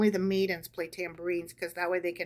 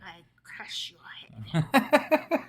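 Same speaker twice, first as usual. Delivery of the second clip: barbarian; much slower than usual. Pretend. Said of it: "crush the heads of the enemies".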